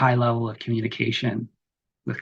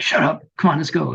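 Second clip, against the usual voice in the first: higher, louder, impatient bark at a nervous companion; harsh scolding; 5 semitones higher, 3 dB louder than usual. Retold or imitated. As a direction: snap at them to get moving. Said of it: "you're like".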